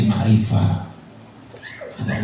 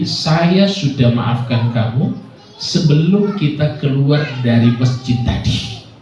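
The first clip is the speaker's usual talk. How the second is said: slow forgiveness; slower than usual. Retold or imitated. Imam's forgiving answer retold slowly.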